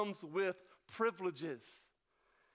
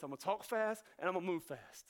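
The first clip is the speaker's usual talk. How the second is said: quick, hurried delivery; fast North Carolina talk; 2 semitones lower, faster than usual. Acted. Preacher voicing the excited writer from North Carolina, fast. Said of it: "puts a little North Carolina on you".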